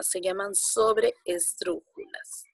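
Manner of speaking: sobreesdrújulas drawn out up high; slow, high sobreesdrújulas. Shown as a demonstration. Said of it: "antes de la antepenúltima".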